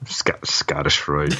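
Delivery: slow unvoiced whisper. Real, not acted. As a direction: breathe it out as a whisper. Whispered echo of joke.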